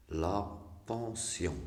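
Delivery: slowly drawn-out example word; reading out words. Shown as a demonstration. Teacher reading an example word to learners, slow and deliberate. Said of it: "je lis les mots".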